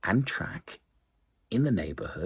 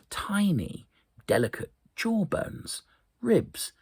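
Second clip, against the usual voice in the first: much higher, delighted lift; wonder. A narrator's reading. Narrator marvelling to children at the tiny bones, much higher. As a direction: marvel at each tiny bone.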